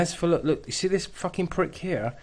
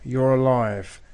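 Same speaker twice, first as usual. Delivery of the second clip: mocking the protester; 5 dB louder, slower than usual. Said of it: "can you hear that?".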